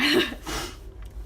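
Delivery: breathy rising chuckle; amused little laugh. Real, not acted. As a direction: laugh lightly to yourself. Laughs after saying same.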